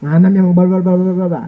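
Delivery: mock tirade run into blah-blah; rough scolding. Shown as a demonstration. Preacher showing congregation what rude scolding is, mock rough. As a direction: demonstrate coarse scolding in gibberish. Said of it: "itu kasar".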